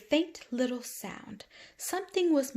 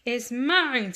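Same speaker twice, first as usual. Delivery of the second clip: squeaking squash bug; 4 semitones higher, 6 dB louder than usual. Acted. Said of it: "squeaked the squash bug".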